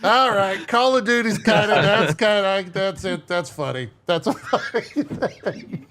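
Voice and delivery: high, tickled voice breaking into chuckles; cracking up while conceding the joke; amused, laughing. Real, not acted. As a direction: say it through suppressed laughter. Laughs while retelling funny clip.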